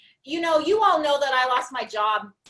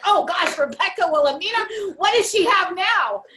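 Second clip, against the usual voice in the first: mock weary staff; 4 semitones higher, 5 dB louder than usual. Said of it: "They're like".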